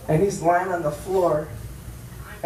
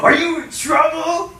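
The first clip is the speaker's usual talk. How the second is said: worried friends; 10 semitones higher, 4 dB louder than usual. Retold or imitated. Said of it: "my friends are like".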